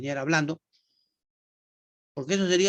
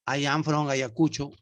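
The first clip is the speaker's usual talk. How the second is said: slow model answer; 3 semitones lower than usual. Shown as a demonstration. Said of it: "él va a decir".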